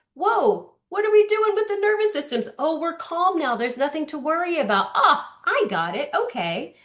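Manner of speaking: lightly voiced relieved baby; baby calming down. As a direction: let the baby discover calm. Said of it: "when he's like".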